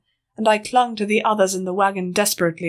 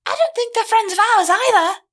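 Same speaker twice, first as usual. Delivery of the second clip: skeptical; 3 dB louder than usual. Acted. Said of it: "she said skeptically".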